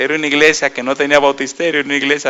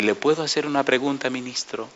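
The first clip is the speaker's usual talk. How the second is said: softer, weighing each word; measured words; 10 dB quieter than usual. Retold or imitated. A lady timidly asking the minister, softly measured. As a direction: ask carefully, holding back. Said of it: "Como así midiendo sus palabras".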